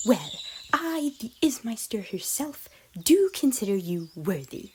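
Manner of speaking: lightly posh, grandly theatrical declaration; a hint of hammed-up nobility; mildly mock-regal speech; posh melodramatic. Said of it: "continuing in a posh, melodramatic tone".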